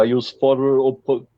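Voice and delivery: attempted German accent, breaking off; half-hearted mock German accent; bad German accent. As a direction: have a clumsy go at a German accent. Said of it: "I can't do a German accent".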